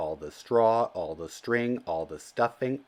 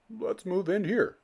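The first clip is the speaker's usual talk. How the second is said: eager Mister Bird; 11 semitones higher than usual. A narrator's reading.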